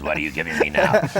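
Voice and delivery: complaining garbage disposal. Acted. Guest voices the garbage disposal in his show idea, high and whiny. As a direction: whine like a fed-up machine. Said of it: "The garbage disposal says".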